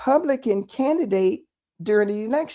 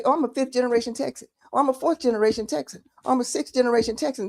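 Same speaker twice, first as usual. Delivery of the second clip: a hint of people showing off their roots, quick; fast mock bragging; faster than usual. To listeners about Texans bragging, fast mock boast. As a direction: rattle off the lineage boasts quickly, lightly mocking. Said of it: "you'll hear people say".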